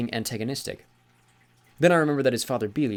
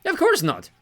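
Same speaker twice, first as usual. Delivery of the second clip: higher, slower, louder jovial god voice; genial old sea god; 13 semitones higher, 7 dB louder, slower than usual. Acted. Sea god corrects Magnus, jovial and higher. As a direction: lean on Granddad with amused mock offence.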